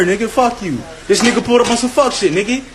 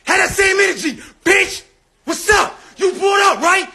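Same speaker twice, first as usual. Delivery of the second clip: higher, heated yelling at a cop; angry shouting; 4 semitones higher than usual. Real, not acted. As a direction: shout him down, furious and taunting. Yelling at police officer.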